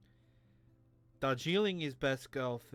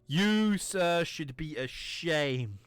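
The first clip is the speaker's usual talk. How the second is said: scolding; 4 dB louder than usual. Acted. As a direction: shame him like an outraged officer. Character scolds a player.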